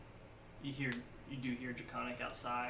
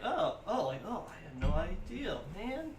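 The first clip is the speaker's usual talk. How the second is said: mock surprise; 5 semitones higher, slower than usual. NPC's surprised reaction, acted out.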